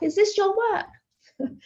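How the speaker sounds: high, drawn-out mock squeal of amazement; retold scream. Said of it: "And I screamed".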